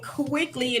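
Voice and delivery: quickly drawn out and set apart; stress on quickly. Real, not acted. Host hurrying guests who join the stream, stress on quickly. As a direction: lean hard on the word quickly. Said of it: "I do emphasize the word quickly".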